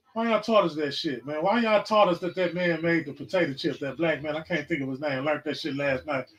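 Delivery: ordinary talk, nothing marked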